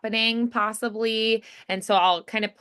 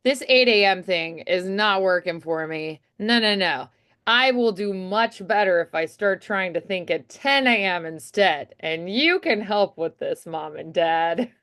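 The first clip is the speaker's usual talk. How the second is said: mild persuasive plea. Shown as a demonstration. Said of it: "you're just like".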